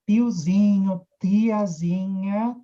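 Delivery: slow, stretched syllables; playful drawn-out words. Shown as a demonstration. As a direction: stretch tiozinho and tiazinha out slowly. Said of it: "E brinca com essa coisa".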